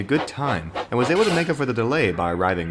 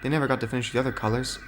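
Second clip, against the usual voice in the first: higher and softer, a hopeful lady engine; high gentle engine voice; 6 semitones higher, 4 dB quieter than usual. Acted. Rebecca answers Oliver in a higher, softer voice. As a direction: ask shyly. Rebecca tells her story.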